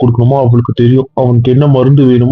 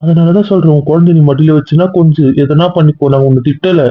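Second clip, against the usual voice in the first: heated retort; 3 semitones higher than usual. Acted. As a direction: hammer it home to the wife. Husband retorts in quarrel. (மனைவியிடம் உயர்ந்த குரலில் கோப பதில்)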